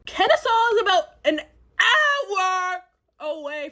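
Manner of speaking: laughing in disbelief through the words; half-laughing as the distance sinks in. Real, not acted. Telling viewers how far the date drove her, laughing. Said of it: "laughing disbelief at distance".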